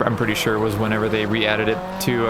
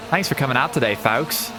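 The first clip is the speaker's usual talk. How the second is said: put-on a light, clumsy stab at an Australian accent; bad Australian accent; 2 semitones higher than usual. Gamer greeting viewers in a weak mock Australian accent. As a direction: toss off an Australian accent that barely lands. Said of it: "My very not good Australian accent".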